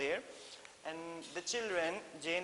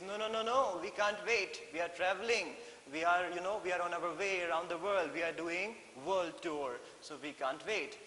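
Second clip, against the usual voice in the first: a firm nanny turning down the invitation, raised voice; Mary Poppins refusing; 2 semitones higher than usual. Acted.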